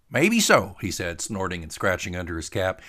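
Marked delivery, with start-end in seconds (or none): 0.1-0.8 much higher, loud and slow; teasing old salt, drawn out; Tater voice. Acted. Tater answers.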